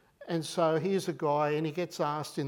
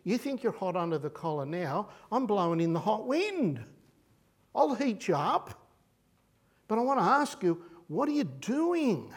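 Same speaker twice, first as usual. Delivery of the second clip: God challenging; 4 semitones higher than usual. Pretend. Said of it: "And God says".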